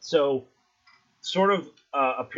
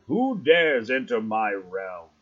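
slow, grumbling giant eye voice; sea god voice; 4 dB louder than usual. Acted. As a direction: rumble it out like an ancient guardian. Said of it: "it sort of grumbles out in Sylvan".

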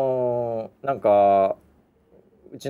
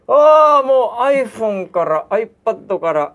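loud, higher threatening voice; angry threat; 9 semitones higher, 7 dB louder, slower than usual. Retold or imitated. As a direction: threaten to pull everything out. Boss threatening to pull out. (脅す上司の声)

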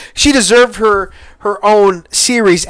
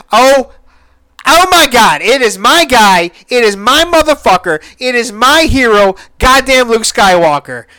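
excited fan gush; 4 semitones higher than usual. Retold or imitated. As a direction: relive the moment you saw your hero. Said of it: "I was like".

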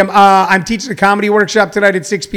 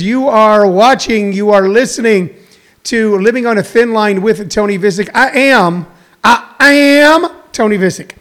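ringmaster. Acted. Show opening announcer intro.

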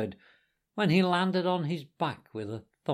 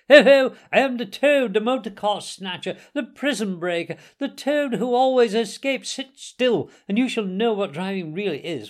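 high, loud, crowing Toad; reckless boasting shout; 8 semitones higher, 7 dB louder than usual. A narrator's reading. Toad revealing himself to his passengers, shouting boastfully. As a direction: proclaim yourself grandly at the top of your voice. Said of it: "he shouted recklessly".

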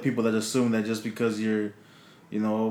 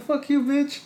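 very high, indignant mock cursing; retold angry comeback; 13 semitones higher, slower than usual. Teenager curses back at the lady, high-pitched mock outrage.

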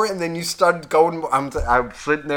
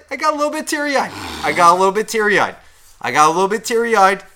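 high-pitched, comically choked-up admission; playing up being teary; mock-emotional confession; 6 semitones higher, 4 dB louder than usual. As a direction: squeak it out like a sheepish confession.

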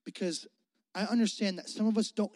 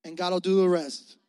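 mom's saying; 5 dB louder than usual. Retold or imitated. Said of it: "she would say".

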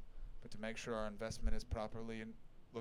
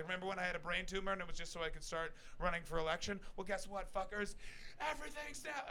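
mock Hillary speech; 6 semitones higher than usual. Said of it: "be like".

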